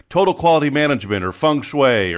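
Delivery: loud, fast, high buzzword bark; mock consultant shout. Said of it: "gaze around and shout".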